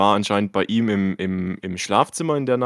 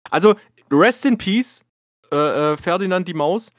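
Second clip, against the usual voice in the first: mock solemn farewell; 7 semitones higher than usual. Mock eulogy for dead mouse.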